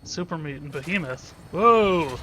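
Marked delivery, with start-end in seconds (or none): 1.5-2.2 louder, higher burst of surprise; startled whoa. Real, not acted. Player spotting a super mutant behemoth, startled. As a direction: blurt it out, taken aback.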